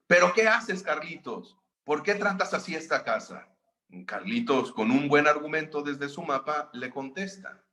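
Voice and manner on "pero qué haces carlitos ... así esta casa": mother reproaching. Retold or imitated. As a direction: scold the boy for kicking the sofa. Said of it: "le empieza a reclamar". (una mamá que le reclama al hijo)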